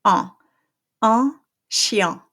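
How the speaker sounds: Un and chien with the same smiling nasal; French nasal in. Shown as a demonstration. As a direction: spread lips on both. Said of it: "pronounced the same way".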